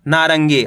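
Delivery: नारंगी with a half न before गी; half-n pronunciation. Shown as a demonstration. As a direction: blend the nasal into गी in नारंगी. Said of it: "आधा ना का उच्चारण निकलेगा".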